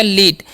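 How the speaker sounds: "लीट" with a long ई; teacher's model of "लीट"; demonstrated pronunciation. Shown as a demonstration. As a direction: hold the ई in "लीट", ending on ट. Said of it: "उसका उच्चारण दीर्घी कर देंगे".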